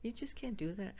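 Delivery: imitating a gentle boss softly correcting someone; sweet supervisor. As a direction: let them down sweetly and quietly. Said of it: "who was so sweet".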